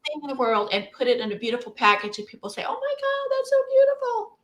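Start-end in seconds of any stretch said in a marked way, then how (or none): 2.7-4.4 high, gushing mock customer. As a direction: squeal like a dazzled shopper. Customers admiring pretty package.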